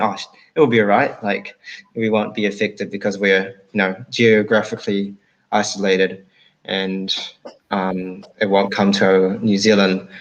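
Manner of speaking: light New Zealand accent; Kiwi accent. Shown as a demonstration. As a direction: say it like a relaxed Kiwi. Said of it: "I'll say it in a Kiwi accent".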